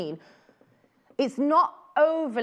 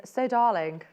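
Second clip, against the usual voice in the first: lightly drawled film-star So Darling; a hint of a black and white film actress purring So Darling; so Darling in a hint of old film glamour; old film starlet. Shown as a demonstration. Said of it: "You have to say it in that voice".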